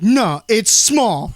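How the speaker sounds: slow, drawn-out deadpan comeback; retold cheeky answer, dragged out; smart-ass reply. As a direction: stretch it out like a wisecrack. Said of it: "me being the smart ass".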